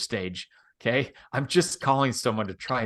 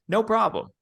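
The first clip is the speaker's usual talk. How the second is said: upbeat no problem; 9 semitones higher than usual. Shown as a demonstration. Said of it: "he teaches".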